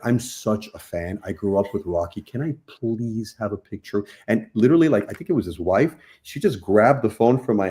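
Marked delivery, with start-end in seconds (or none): 0.0-4.0 overly formal fan. Retold or imitated. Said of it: "Very formal".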